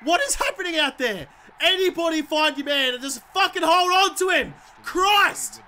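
real gamer exasperation; exasperated yelling. Real, not acted. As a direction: yell at your useless team in frustration. Exasperated at players on the field.

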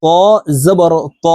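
ত with an emphatic t and rounded back vowel; careful, thick ত, pause before জবর; thick, heavy ত. Shown as a demonstration. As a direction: demonstrate heavy Arabic ত, full in the mouth. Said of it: "তর উচ্চারণ মোটাভাবে".

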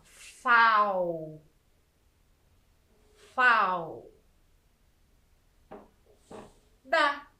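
"Fal" stretched and repeated, then "da" on its own; each syllable of "Fal, fal, da" set apart and drawn out; isolated syllables. Shown as a demonstration. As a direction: sound out "Fal, fal, da" with long pauses. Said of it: "outra sílaba".

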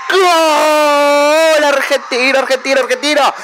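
slow stretched goal cry; drawn-out goal call. Real, not acted. Gamer calling his team's goal, slow drawn-out goal cry.

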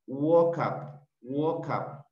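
WALK UP run together as "wokap"; linked pronunciation. Shown as a demonstration. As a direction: say "walk up" as if one single word. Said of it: "como si fuera una sola palabra".

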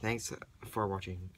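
hoarse, hushed whisper; raspy whisper. Real, not acted. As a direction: whisper through a worn-out voice. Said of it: "Excuse my voice".

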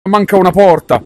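high, loud sudden realization; surprised exclamation. Real, not acted. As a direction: blurt out the discovery. Noticing missing door.

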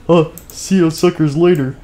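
high, gloating farewell. Acted. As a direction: taunt them as you leave. Gloating goodbye.

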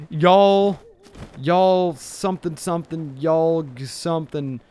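tentative Southern drawl, slowed down; half-hearted try at a Southern accent. Shown as a demonstration. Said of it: "Do a southern accent".

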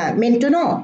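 maintenant very slow, French, final t silent; French pronunciation. Shown as a demonstration. Teacher slowly modelling French for students, drawn-out demo. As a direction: draw out maintenant without sounding the t. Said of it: "إذا جاءت في آخر الكلمة لا تنطق".

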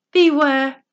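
a sudden loud, urgent "Beware"; loud warning. Acted. Gnomes warning Little Bo Peep of the hog, loud urgent cry. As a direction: bark the warning out to stop her.

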